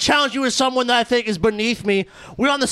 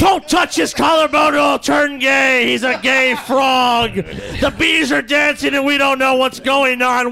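mock shouting; slower than usual. Mock outrage opening rant.

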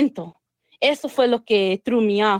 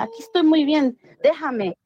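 mild mock yell; 4 semitones higher than usual. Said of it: "Estaba gritando y decía".

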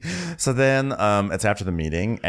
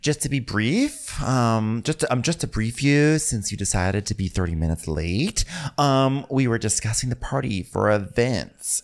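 passive-aggressive; 3 semitones higher than usual. Retold or imitated. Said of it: "really big passive-aggressive artillery".

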